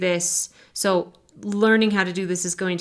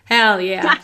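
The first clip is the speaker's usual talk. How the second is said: louder, punchier second hell yeah; enthusiastic cheer; 7 dB louder than usual. Real, not acted. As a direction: cheer it like a rally cry. Repeats it louder.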